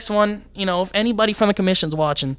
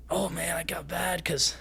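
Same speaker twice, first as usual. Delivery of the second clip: whisper; 7 dB quieter than usual. Real, not acted. Confiding aside, unvoiced.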